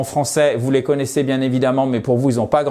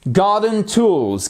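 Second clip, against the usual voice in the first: slow model reading; 6 semitones higher, much slower than usual. Shown as a demonstration.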